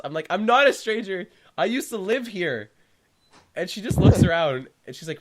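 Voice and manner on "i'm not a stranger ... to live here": high-pitched yell through glass, re-enacted; retold yell. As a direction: act out protesting through a closed door, raised high. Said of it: "I yell through the glass".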